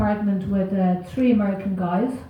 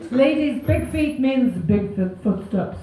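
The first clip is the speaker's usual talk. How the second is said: mock inspirational; slower than usual.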